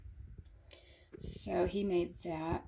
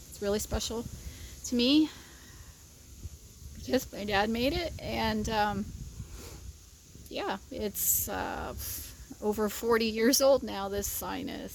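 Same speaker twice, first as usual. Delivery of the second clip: real emotion, higher halting voice; choked up; 4 semitones higher than usual. Real, not acted. Telling viewers dad made the sign, choked up. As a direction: fight back tears, pausing between phrases. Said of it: "didn't mean to get all choked up".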